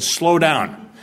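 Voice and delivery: clipped police warning; policeman's warning. Retold or imitated. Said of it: "He said".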